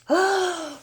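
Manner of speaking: long high shocked gasp. Acted. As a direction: gasp at the chilling demand. Reader reacts to the message.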